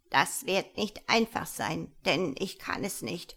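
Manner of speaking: gnome voice with swooping pitch; lightly voiced gnome. Gnome admits to the girl he cannot help, wavering gnome voice. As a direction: explain reluctantly as a little wizard.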